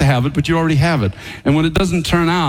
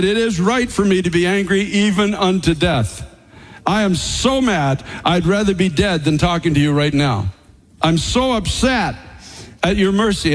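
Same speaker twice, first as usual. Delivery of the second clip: angry Jonah; 2 semitones higher than usual. Retold or imitated. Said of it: "he was so mad at everything around him".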